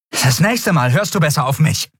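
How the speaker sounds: cold warning. Acted. Andriel nach dem Schlag.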